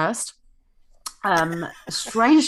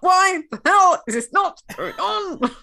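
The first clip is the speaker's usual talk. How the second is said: mock frustrated archbishop; 13 semitones higher, 6 dB louder than usual. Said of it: "was probably like".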